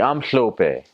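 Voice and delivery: "hlope" with a wet, slushy hl at the front; "hlope" begun with a spitty lateral hiss; spitty hl sound. Shown as a demonstration. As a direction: push air round the tongue to start "hlope". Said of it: "sounds like you got a lot of spit".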